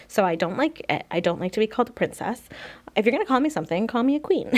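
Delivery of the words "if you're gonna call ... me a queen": playful, higher sassy quip; tossed-off cheeky demand; joking. Acted. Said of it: "I joke around like that".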